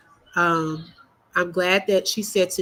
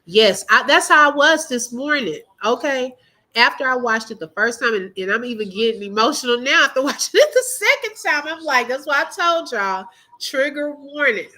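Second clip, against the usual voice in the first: raised, louder voice, choked up by emotion; emotional; 5 semitones higher, 4 dB louder than usual. Real, not acted. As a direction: let the feeling push the voice up and out. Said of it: "I'm so emotional right now".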